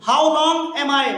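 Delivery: drawn out, word by word; teacher drilling the question slowly for students; slow model reading. Shown as a demonstration. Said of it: "teacher models the question slowly".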